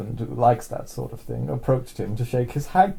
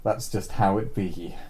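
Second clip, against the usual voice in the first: mock Alabama accent; 3 semitones lower than usual. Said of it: "Sounded like a rural Alabama action".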